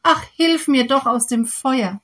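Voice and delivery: pleading cry. Acted. Little snake begging the farmer for rescue, pleading cry. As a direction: plead with the farmer to save you. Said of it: "mit flehenden Augen an und rief".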